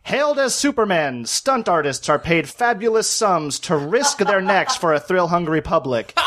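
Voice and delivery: lightly done vintage newsreel announcer; a hint of a thirties newsreel narrator; old-timey newsreel voice. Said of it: "old-timey newsreel voice".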